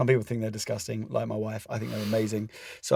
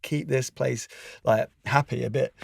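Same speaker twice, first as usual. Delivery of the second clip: exasperated wife; 5 semitones higher than usual. Retold or imitated. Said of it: "She's like".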